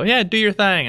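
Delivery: Texas twang. Retold or imitated. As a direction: let the Texas twang slip out. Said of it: "and I go".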